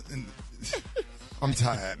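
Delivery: laughing. Real, not acted. Host laughs at himself.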